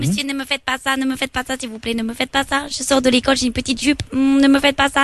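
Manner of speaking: hammed-up frightened little student; mock schoolgirl. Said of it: "je suis une petite étudiante chinoise".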